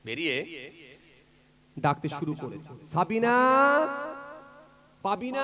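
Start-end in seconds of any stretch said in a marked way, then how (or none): 2.9-5.4 high, loud call into the dark. Retold or imitated. Father searching at night, calling out loudly. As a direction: call the girls' names across the field.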